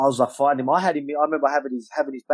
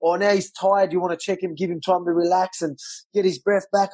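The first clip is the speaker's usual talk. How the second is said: higher sarcastic complaint; mock the ref's excuse, pitched up and bitter; fuming; 5 semitones higher than usual. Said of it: "I'm fuming again".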